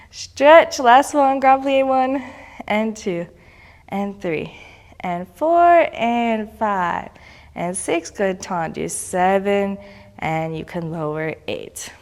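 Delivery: slow, even counts with held pauses; stern rhythmic counting. Acted. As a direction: call each count like a ballet teacher. Final counted set.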